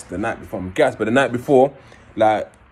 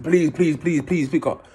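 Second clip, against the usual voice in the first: desperate plea; 5 semitones higher, slower than usual. Retold or imitated. Begging phone to be answered.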